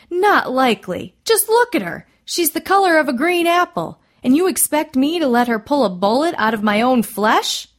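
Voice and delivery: high, loud, indignant protest; incredulous cry. A narrator's reading. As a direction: object loudly, aghast at the idea. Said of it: "the doctor cried".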